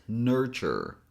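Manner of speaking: "nurture" as two syllables, nur-chur; two-syllable demo. Shown as a demonstration. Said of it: "we only have nur and chur".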